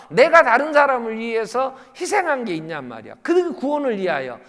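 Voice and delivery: high, loud exhortation; full-force preaching. Real, not acted. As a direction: cry out to the congregation, then ease slightly. (힘껏 외치는 설교)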